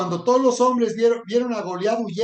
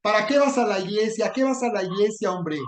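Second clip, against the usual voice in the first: mocking scoffer; 2 semitones higher than usual. Preacher voicing a rebel child mocking Christians, sneering. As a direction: scoff at them like a rebel son. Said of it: "como ese filisteo gritándote en la cara".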